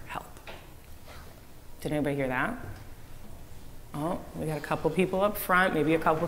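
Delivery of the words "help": softer, near-whispered instruction; demonstrated hushed voice. Shown as a demonstration. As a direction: drop the volume to model a whisper.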